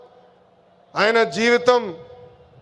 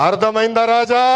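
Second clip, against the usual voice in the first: taunting question. Real, not acted. Leader mocking rivals over the red book, taunting question. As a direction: tease them with a measured "Raja". Taunting catchphrase, first take.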